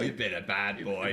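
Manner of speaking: low husky voice. Pretend. The speaker repeats the line low.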